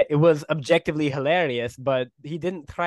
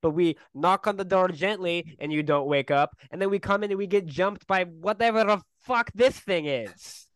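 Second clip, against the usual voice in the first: angry; 5 semitones higher than usual. Acted. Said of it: "start getting real angry".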